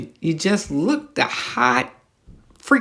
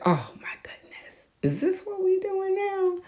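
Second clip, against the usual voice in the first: tiny breathy puppet lady voice, pitched up high; little puppet voice; 7 dB quieter than usual. Retold or imitated. Host mimics the creepy TV puppet lady, tiny and breathy. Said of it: "she had that little, ah, voice".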